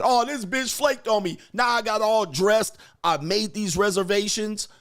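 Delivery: mock angry date. Guy mocking a man whose date flaked, whiny. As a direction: whine like a man stood up.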